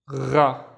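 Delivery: GHA with a gargling gh at the back of the throat; throaty gargle into "gha"; gargled gh. Shown as a demonstration. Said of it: "This is the gargling sound".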